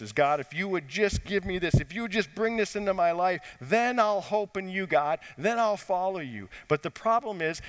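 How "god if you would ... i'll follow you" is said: higher-pitched mock plea to God; bargaining with God. Preacher voicing what people often say to God, higher bargaining plea. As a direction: plead upward, as if striking a deal. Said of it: "we often say things like this".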